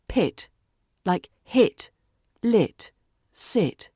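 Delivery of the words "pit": "Pit." short, crisp and pure; "Pit." rhymes with hit, lit, sit. Shown as a demonstration. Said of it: "Keep it short, crisp, and pure".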